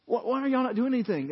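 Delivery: incredulous David. Acted. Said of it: "he comes out and he says".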